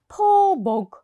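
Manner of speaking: breathy pitying whisper. Acted. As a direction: whisper it with pity. Father pities the cat.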